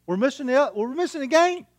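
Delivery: high, urgent mock protest to his son; alarmed protest. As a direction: imitate your own panic about missing the game.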